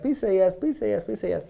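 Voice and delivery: eager pleading. Retold or imitated. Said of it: "as an eager beaver P M, I may be like".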